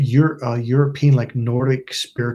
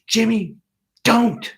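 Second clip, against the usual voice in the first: retold urgent warning; 8 semitones higher, slower than usual. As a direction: imitate a kid suddenly warning a friend. Retold sudden warning to a friend.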